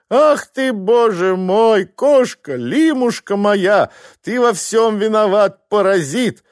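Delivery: high, loud, slow wailing that turns to blame; wife wailing for cat, blaming husband; wailing lament. Acted. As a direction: howl for the lost cat, then blame him. Wife wails over lost cat.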